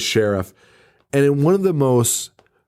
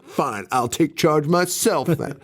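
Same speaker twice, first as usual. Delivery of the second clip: mock resolute; 4 semitones higher, slower than usual. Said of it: "And Radish is like".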